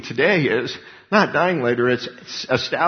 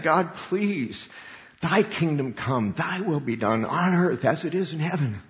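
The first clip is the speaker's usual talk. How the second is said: higher, slowed earnest plea; pleading prayer; 4 semitones higher than usual. Retold or imitated. Preacher voicing believers crying out to God in prayer. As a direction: pray it as a desperate believer. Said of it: "crying out to God and saying".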